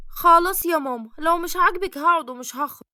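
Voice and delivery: sulky retort. Acted. Daughter sulks at mother's criticism.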